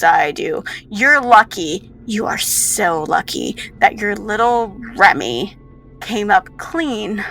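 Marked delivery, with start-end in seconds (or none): 6.0-7.2 slow, deliberate "came up clean"; slow, pointed. Acted. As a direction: draw out "came up clean" at usual pitch. Villain dwells on test result.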